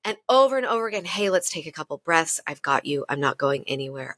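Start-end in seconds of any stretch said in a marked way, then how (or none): 1.1-4.2 lower, gentle and steady reassurance; calm inner voice. Retold or imitated. Her wiser inner self comforting her sobbing self, calm and reassuring. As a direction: soothe yourself like a patient friend. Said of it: "I hear her be like".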